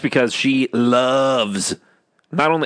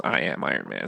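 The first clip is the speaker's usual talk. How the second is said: quoting, low and quiet; 9 dB quieter than usual. Retold or imitated. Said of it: "when he fucking says".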